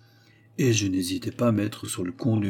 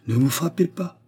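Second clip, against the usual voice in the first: en souriant; 7 semitones higher than usual. A narrator's reading. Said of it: "en souriant de ma mine consternée".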